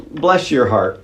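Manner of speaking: sarcastic. Retold or imitated. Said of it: "Just kinda sarcastic".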